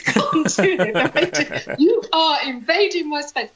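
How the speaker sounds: slow, deliberate warning with no accent attempted; stern warning. Scottish pub regular warning off crowding drinkers, slow stern voice. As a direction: spell out each word like a firm boundary. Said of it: "He would say".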